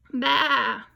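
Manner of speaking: bleating like a sheep; sheep baa. Shown as a demonstration. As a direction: bleat it for the class. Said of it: "Sheep says baa".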